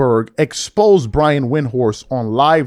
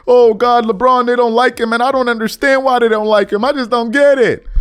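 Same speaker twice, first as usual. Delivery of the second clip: mock whining fan; 5 semitones higher than usual. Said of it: "crying and whining and moaning".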